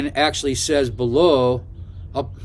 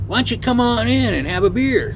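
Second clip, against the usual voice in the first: higher-pitched inviting voice; imitated friendly invitation; 9 semitones higher than usual. Nancy asks the driver in for a beer, imitated friendly invitation. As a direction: voice her coaxing him in.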